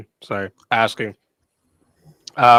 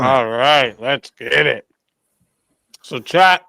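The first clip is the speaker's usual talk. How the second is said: talking through a mouthful; words around a bite of food; mouth full; 4 dB louder, slower than usual. Real, not acted. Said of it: "sorry, I'm talking with my mouth full".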